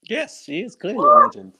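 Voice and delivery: emphatic yes. Real, not acted.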